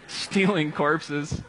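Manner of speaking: slow words still laughing; laughing punchline. Real, not acted. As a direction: drag the punchline out through laughter.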